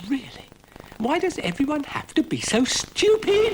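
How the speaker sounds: high, loud exasperation; exasperated outburst. Acted. Dougal fed up with his cast, high and loud. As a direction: lose patience with everyone.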